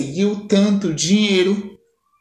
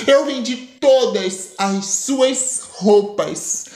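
gloating laugh; 3 semitones higher, slower than usual. Acted. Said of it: "Dando risada".

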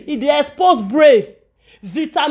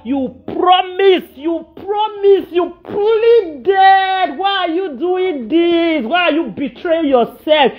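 pleading lament; 3 semitones higher, slower than usual. Real, not acted. Lamenting betrayal.

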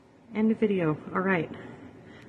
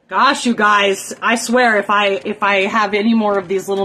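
exasperated; 5 dB louder than usual. Real, not acted. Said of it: "I'm gonna lose my shit".

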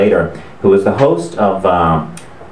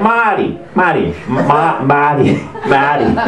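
mock interrupting; 3 semitones higher, slower than usual. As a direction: imitate a host butting in. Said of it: "he cuts me off".

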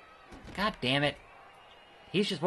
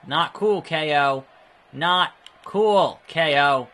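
loud protest; 5 dB louder, much slower than usual. Real, not acted. Protesting opponent's attack.

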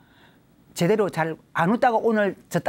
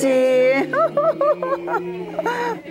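long, high belly laugh; big demonstrated ha-ha laugh; exercise laughter; 3 dB louder than usual. Shown as a demonstration. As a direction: burst into sustained high-pitched laughter. Laughing exercise after the count.

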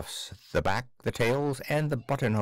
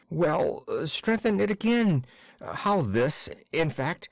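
higher, halting anxious clerk; stammering clerk; 5 semitones higher than usual. Acted. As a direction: stumble through the words. Akaky stammers.

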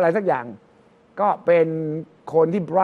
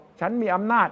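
slow assertive quote. Retold or imitated. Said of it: "ต่างคนต่างบอก".

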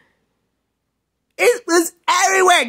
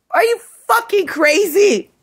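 raised-pitch, incredulous anger; real indignation, pitched up; indignant challenge; 5 semitones higher than usual. Real, not acted. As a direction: confront them in angry disbelief. Angry challenge to those accused.

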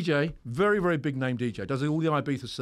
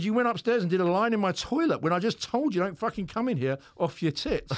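indignant scolding; 5 semitones higher than usual. Retold or imitated. Therapist scolds lying client.

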